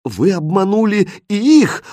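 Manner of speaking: appalled accusation; indignant outburst. Acted. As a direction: explode with indignation. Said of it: "возмутилась королевна".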